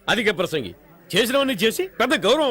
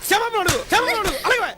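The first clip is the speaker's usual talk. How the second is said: angry shout; 8 semitones higher than usual. Acted. Father orders daughter to apologise.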